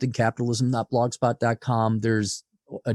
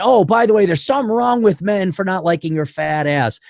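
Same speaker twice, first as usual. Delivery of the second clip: mocking sweet-talk; 5 semitones higher, 4 dB louder than usual. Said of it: "tell you what you wanna hear".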